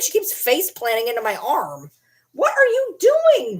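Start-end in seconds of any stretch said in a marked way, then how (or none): 2.3-3.6 high slow doggy question; pet talk. Real, not acted. Asking the face-planting dog, high pet voice. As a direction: coo at the dog.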